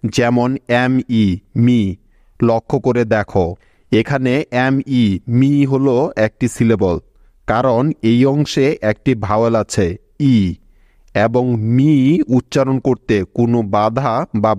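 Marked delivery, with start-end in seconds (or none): 1.6-1.8 "মি" with a long ee sound; long vowel. Shown as a demonstration. Teacher shows students the long sound, long-vowel "মি". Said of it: "সেই ভাওয়েলটির long sound হয়". 11.8-11.9 "মি" with the ee drawn out; long vowel. Shown as a demonstration. Teacher shows one unbroken syllable, long-vowel "মি". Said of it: "এর long sound ইকার হয়েছে".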